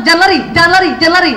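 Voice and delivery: nagging call. Retold or imitated. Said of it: "Kadang-kadang jangannya gitu".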